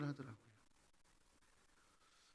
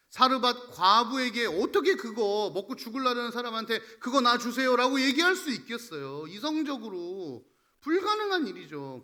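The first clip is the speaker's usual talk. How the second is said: raised, urgent sermon voice; forceful preaching; 5 semitones higher, 8 dB louder than usual. Real, not acted. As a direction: press the Bible example on the congregation. (목소리를 높인 열띤 설교조)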